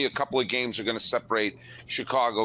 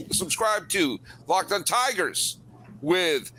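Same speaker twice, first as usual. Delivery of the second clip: hoarse, strained voice; losing voice; 4 semitones higher than usual. Real, not acted. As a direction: voice giving out, hoarse. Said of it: "I'm losing my voice over this".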